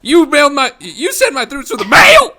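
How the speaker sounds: high squeaky voice breaking up on mail; voice cracking. Retold or imitated. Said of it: "his voice, like, cracks".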